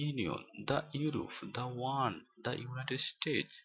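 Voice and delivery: "the" said "da" before a y or w sound; "the" as thuh. Shown as a demonstration. Teacher listing examples for learners, "the" pronounced "da". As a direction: say each "the" as "da", open vowel. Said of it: "দা বসে উচ্চারণ করতে হয়".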